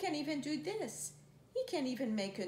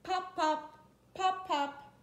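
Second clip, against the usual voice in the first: popping cork; 6 semitones higher, 4 dB louder than usual. Shown as a demonstration. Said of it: "He can go like a cork".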